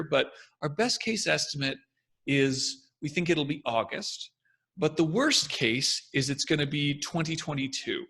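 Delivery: believe it, but hold back a little; hesitant voice. Shown as a demonstration. Expert giving best and worst cases, with slow careful hesitancy. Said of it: "there's a hesitancy to it".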